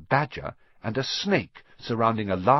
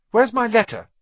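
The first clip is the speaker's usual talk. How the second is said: loud demand; 9 dB louder than usual. A narrator's reading. Harry demanding.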